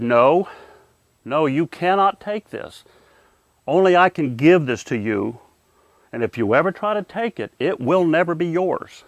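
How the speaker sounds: firm, measured tough love; stern. Retold or imitated. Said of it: "but he was stern".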